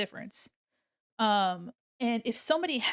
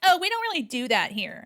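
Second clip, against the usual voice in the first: mock prim, raised voice; snooty lady voice; 7 semitones higher, 5 dB louder than usual. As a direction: imitate a condescending admissions lady. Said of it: "She was like".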